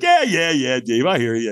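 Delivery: breezy imitation of an unfazed friend; playful brush-off. Sponsor humouring a grumpy newcomer, playful. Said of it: "he's a real playful guy".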